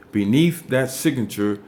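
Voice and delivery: "beneath" given clear weight; stress on beneath. Shown as a demonstration. Teacher repeating the point, stressing "beneath". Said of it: "that's why I emphasize the word beneath".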